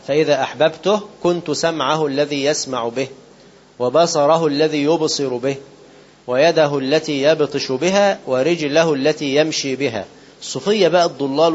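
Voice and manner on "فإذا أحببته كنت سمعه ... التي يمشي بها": slow measured recitation of the sacred text; solemn slow quoting of scripture; hadith recitation. Acted. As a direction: recite it slowly, weighing each word.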